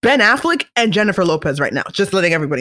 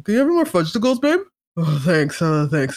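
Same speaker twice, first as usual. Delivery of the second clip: mock out of breath; 3 semitones lower than usual. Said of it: "breathing, out of breath".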